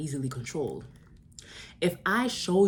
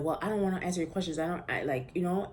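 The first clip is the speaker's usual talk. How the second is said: mildly sassy retort, pitched up at first; 3 semitones higher than usual. Retold or imitated. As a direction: give it a touch of sass. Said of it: "I was getting sassy".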